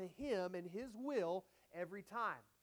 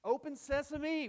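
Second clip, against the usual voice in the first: emphatic; 6 semitones higher, 6 dB louder than usual. Acted. Playful repeat of the phrase.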